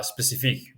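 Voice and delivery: spécifique said the French way, spe-si-FEEK; soft French spécifique with French vowels and a stress on the end; saying spécifique in French; French word. Shown as a demonstration. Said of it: "Okay, you get this".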